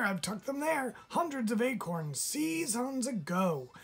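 very high, chattery voice; fussy squirrel. A narrator's reading. Squirrel fussing about hidden acorns for the fawn.

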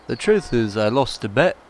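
loud, badly faked Scouse accent; attempted Liverpool accent. Player voices John Harrison admitting a lost bet, wobbly Scouse accent. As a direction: have a loud, shaky go at Scouse. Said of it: "I can't do that accent there".

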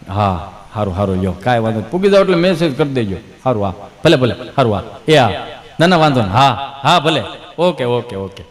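low, distracted phone talk; mock phone chatter. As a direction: mumble yes-yes into the phone. Mock phone call, brushing someone off.

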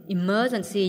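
"emergency" stressed on the second syllable. Shown as a demonstration. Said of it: "nhấn âm hai nha". (nhấn âm hai "emergency")

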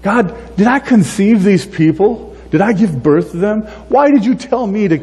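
pitched high, exasperated plea to God; Moses pleading. Retold or imitated. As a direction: whine it up to God like a worn-out shepherd.

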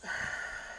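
soft, voiceless exhale; imitated heavy sigh. Wife raises her head to husband, imitated sigh. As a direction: let out her long sigh. Retold sound before she looks up.

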